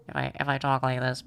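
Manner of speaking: put-on a touch of an old secretary; mock smoker voice. Shown as a demonstration. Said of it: "I don't know how to do the smoker voice".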